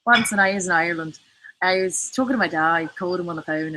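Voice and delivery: a try at a Hiberno-English accent; attempted Irish accent. Shown as a demonstration. Speaker showing viewers their Irish accent on request, attempted Irish lilt. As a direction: tell it in a tentative Irish accent. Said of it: "What can I say with an Irish accent?".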